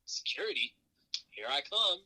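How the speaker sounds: high, eager mock announcement. Joking to the listener about being picked as security. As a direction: ham up the eager volunteer.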